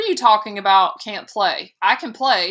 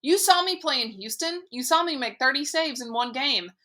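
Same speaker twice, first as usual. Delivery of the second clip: protesting; 6 semitones higher than usual. A narrator's reading. Boy protesting to mother.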